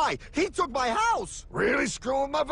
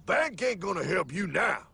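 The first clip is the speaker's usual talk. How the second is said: much lower, cool gravel-free mentor voice; deep mysterious stranger; 10 semitones lower than usual. Acted. Time traveller greets old classmate, low cool mentor voice. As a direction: play the cool mysterious guide.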